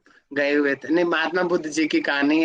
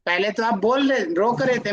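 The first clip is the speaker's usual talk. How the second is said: put-on child refusing; 5 semitones higher than usual. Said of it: "अब वो बोलेगा".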